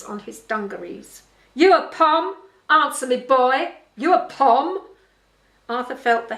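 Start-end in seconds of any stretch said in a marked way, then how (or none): 1.5-4.8 loud, higher, hectoring questions; hostile demand. A narrator's reading. Farm boss challenging the new English boy, hostile demand. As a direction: fire it at him like a bullying boss.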